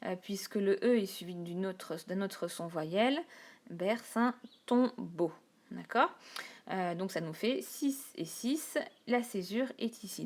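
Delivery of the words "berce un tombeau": slow «berce un tombeau», the E of «berce» run into «un»; slow linked «berce un tombeau»; linked syllables. Shown as a demonstration. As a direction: glide «berce» into «un» slowly. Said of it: "englober les deux sons".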